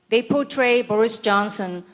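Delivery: ordinary delivery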